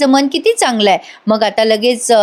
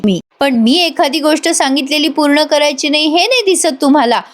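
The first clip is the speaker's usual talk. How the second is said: a lightly raised, whiny complaining daughter's voice; sulky daughter; 3 semitones higher than usual. Acted. Daughter complaining to her family that nobody cares, mildly whiny. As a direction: sulk and sound wronged, pitched a little up.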